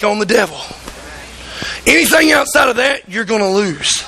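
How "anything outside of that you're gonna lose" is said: ordinary talk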